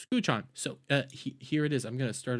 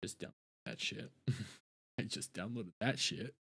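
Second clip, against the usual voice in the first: 1 whispered aside; 4 semitones lower, 15 dB quieter than usual. Real, not acted. Aside while downloading.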